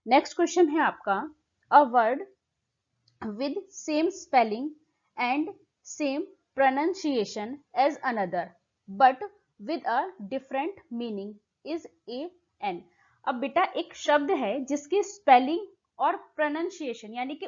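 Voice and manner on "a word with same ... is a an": slow, deliberate exam-question read. Acted. Teacher reading the question text slowly to students.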